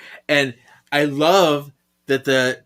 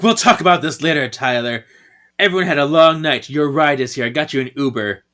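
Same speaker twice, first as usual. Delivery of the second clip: mock yelling; 2 semitones higher, 4 dB louder than usual. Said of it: "Paige is yelling at Tyler".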